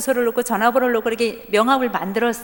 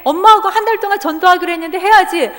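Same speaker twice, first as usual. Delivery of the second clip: louder, higher insistence; firm insistence; 6 semitones higher, 7 dB louder than usual. Retold or imitated. Mother insisting loudly to her son. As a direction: press the point hard.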